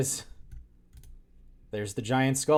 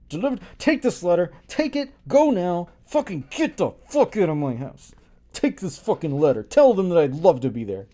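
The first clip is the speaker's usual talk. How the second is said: mock rude order; 3 semitones higher, 3 dB louder than usual. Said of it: "paraphrases the order crudely".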